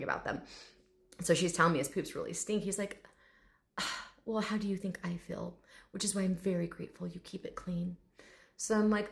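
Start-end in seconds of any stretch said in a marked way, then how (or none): 3.8-8.0 quiet, lightly voiced long-suffering dignity; proper gentleman. Dragon answering the stink complaint, quietly proper. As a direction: sigh it out softly and formally. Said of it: "this very proper gentleman".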